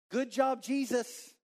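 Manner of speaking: high crowd cheer, tongue in cheek; imagined cheer. Pretend.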